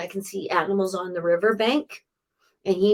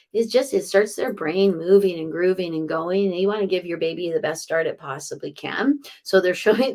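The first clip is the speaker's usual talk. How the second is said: normal talking voice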